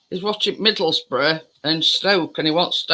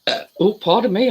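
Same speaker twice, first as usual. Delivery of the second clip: burping; 2 semitones higher than usual. Real, not acted. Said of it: "I'm burping now".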